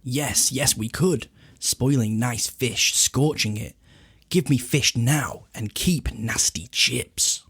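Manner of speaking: reading Gollum. Retold or imitated. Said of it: "Gollum does reply to that".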